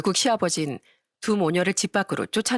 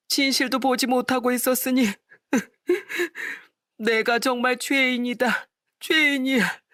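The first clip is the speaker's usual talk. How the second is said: put-on wailing old father; 5 semitones higher than usual. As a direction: lament as a guilty old father. Father wails in remorse.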